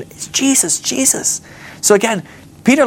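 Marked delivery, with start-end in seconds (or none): 0.0-1.4 high, hushed mock amazement; awed realization. Peter recognising Jesus from the boat, awed realization. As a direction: gasp the name out, pitched way up.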